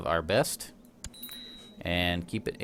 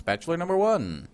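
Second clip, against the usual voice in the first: game show host; 9 semitones higher than usual. Pretend. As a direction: sell it like a big TV host reveal, pitch climbing then falling. Game show host announcing contestant.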